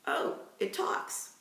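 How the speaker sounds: slow, breathy hushed wonder; a slow amazed whisper; awed whisper. A narrator's reading. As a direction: whisper it in disbelief. Awed boy speaks softly.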